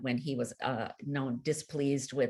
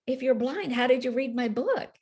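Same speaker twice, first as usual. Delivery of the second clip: higher, astonished disbelief; shocked question; 8 semitones higher than usual. Retold or imitated. Author asking the blind reader how she read the book, shocked. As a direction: ask it still reeling from the news. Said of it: "I was so shocked".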